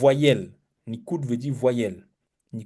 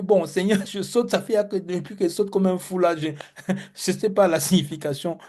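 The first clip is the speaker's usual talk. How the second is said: mock prayer while jumping; 4 semitones higher than usual. Hebrew praying while jumping.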